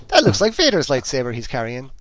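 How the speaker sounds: Irish accent. Real, not acted. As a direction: let a broad Irish accent slip out. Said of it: "That sounded very Irish there".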